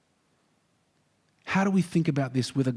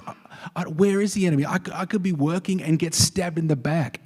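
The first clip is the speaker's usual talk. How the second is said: a touch of panic, darting; lightly voiced fearful worker; worried worker; 4 semitones higher than usual. Preacher voicing a scared wall builder, anxious.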